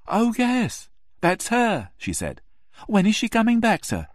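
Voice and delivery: landlady brightening at the photo; eager landlady. Acted.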